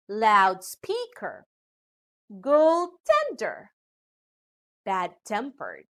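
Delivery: "Loudspeaker, goaltender, bad-tempered", weight on SPEAK, TEND and TEMP; second-element stress. Shown as a demonstration. Teacher listing compound adjectives, "Loudspeaker, goaltender, bad-tempered" stressed on the second element. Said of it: "stress are on the second element".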